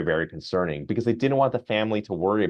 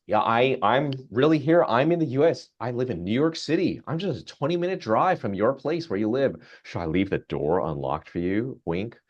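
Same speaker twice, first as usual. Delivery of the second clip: flirty chatbot; 3 semitones higher than usual. Retold or imitated.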